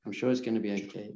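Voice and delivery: hushed calming words; soft self-reassurance. Shown as a demonstration. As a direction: breathe out and reassure yourself gently. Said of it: "breathe deeply and say".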